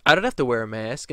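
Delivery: plain defiant retort. Retold or imitated. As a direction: snap back a refusal. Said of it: "then she goes".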